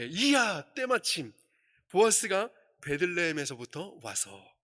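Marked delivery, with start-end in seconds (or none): 0.1-1.3 high-pitched, astonished exclamation full of wonder. Showing how to read the Bible text, as an amazed exclamation. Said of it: "놀라움을 표현하는 감탄사로 읽는 것이 훨씬 더 좋을 것입니다".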